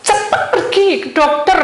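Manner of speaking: loud, high retold order; urgent shout. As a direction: urge them off with real force. Retold urgent advice to caller. (seruan mendesak, keras dan tinggi)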